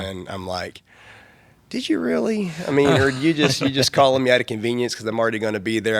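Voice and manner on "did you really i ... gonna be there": pitched way up, then rushing on; a disbelieving squeak at first, then quicker protest; replaying his own doubt, half-laughing at himself; incredulous doubt. Retelling his own doubtful reply.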